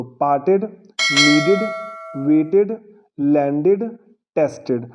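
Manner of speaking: पार्टेड, नीडेड, वेटेड, लैंडेड, टेस्टेड each end in an added id syllable; teacher modelling the id ending, one word at a time. Shown as a demonstration. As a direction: pause after each word like a model list. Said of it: "हम इड pronounce करेंगे".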